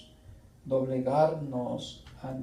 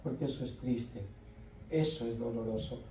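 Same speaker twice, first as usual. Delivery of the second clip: soft, much quieter tearful pleading; retold tearful plea; 6 dB quieter than usual. Uncle tearfully begging his nephew not to say it, softly. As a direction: gently beg the nephew through tears. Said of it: "lloré, me puse a llorar".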